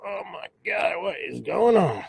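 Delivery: a hint of a high, startled newborn; confused baby. Baby squeezed through the birth canal, mildly panicked. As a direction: lightly play the lost baby in the canal.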